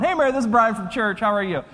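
hammed-up Southern phone greeting; Southern accent. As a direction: greet her with a Southern lilt. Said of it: "I start talking in a Southern accent".

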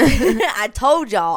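slow, loud and laughing; laughing told you so. Real, not acted. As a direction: gloat through a laugh.

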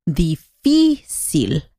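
"difícil" stressed on the second syllable, di-FÍ-cil; slow "difícil" with the weight on FÍ; Spanish stress. Shown as a demonstration. Teacher contrasting Spanish stress in "difícil", FÍ leaned on slowly. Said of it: "ahí viene el acento, en la segunda sílaba".

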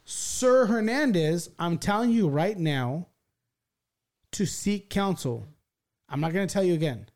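very slow, emphatic courtroom order; imitated stern judge. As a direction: spell it out as a judge losing patience. Judge repeats his order, retold.

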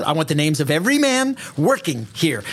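lightly voiced pushy bureaucrat, fast at the end; a hint of a bossy official. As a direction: boss the crew around, rushing the last order. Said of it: "this is what he says".

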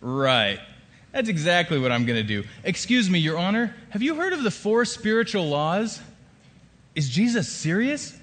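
dry, mocking and high-pitched; sarcastic inner voice. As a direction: scoff at the idea. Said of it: "my sarcastic thinking kicked in".

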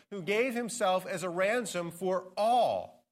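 slow build to a weighted all; stress on all. Shown as a demonstration. Pastor reading scripture, ending on stressed all. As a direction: save the weight for the final all. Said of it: "I'm going to emphasize a certain word".

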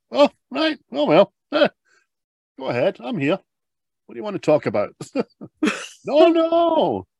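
high, flustered dad voice; flustered father. Retold or imitated. Father caught out by his son, flustered and high.

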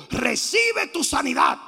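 drawn-out preacher's proclamation; slow, mildly shouted healing call; mock healing shout. Preacher voices what Paul did not shout, mock healing cry. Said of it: "no le gritó".

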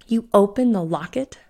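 can't believe he opened it; incredulous. Acted. Eleanor to Bellamy, stunned he opened it, incredulous. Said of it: "said Eleanor incredulously".

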